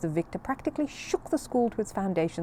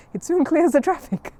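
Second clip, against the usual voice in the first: laughing father; 10 semitones higher, 9 dB louder than usual. Acted. Father joking about the smell.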